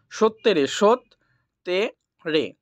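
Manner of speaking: সত্যে split into সৎ and তে; teacher sounding out সত্যে syllable by syllable. Shown as a demonstration. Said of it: "এগুলো দেখে নাও".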